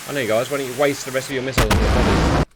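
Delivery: sarcastic quip to the AI pilots. Real, not acted. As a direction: throw it out as sarcastic advice. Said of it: "That's sarcasm".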